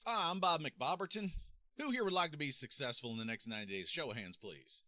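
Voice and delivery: high-pitched mock seminar presenter; put-on presenter voice, high and distant; stage speaker. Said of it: "the thing that I see people do".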